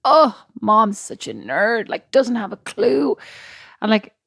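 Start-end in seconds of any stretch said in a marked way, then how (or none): 0.0-3.2 drawn-out, exasperated mock kid voice; peeved kid. Mum mimicking her peeved son's complaint about her, exasperated. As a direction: imitate a child groaning slowly about an uncool parent. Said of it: "he gets really peeved".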